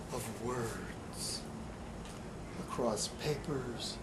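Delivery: slow, hushed poetry reading, long pauses between phrases; poem reading. Acted. Poet reads his poem aloud.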